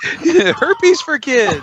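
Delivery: drawn-out high pitchman; slow high ad slogan. Pretend. Cohost parodying a toy commercial, slow and high. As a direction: stretch every word like a bad commercial.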